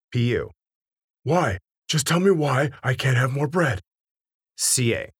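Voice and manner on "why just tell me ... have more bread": whiny plea. Acted. P U pleads for more bread.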